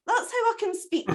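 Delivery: high, chirpy little bird voice, grateful; a small rescued bird thanking its saviour; wee cuckoo voice. Acted. Cuckoo thanks Jack for saving its life, high grateful bird voice.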